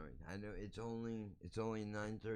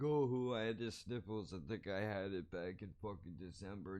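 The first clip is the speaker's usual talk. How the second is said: hammed-up dismissive impression; mocking a shrugger; 5 dB louder than usual. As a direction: sneer at someone who shrugged it off. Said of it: "I'm not being like".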